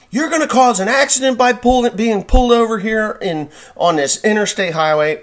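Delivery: high, loud, furious yelling; screaming cop. Retold or imitated. Cop screaming at driver on the highway, furious yell. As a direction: rant at him like a livid cop. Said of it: "he's screaming at me".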